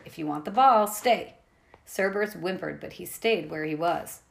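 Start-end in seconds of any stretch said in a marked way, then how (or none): 0.0-1.3 louder firm command; trainer's stern order. Acted. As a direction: bargain with the dog firmly. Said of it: "Annabeth ordered the monster".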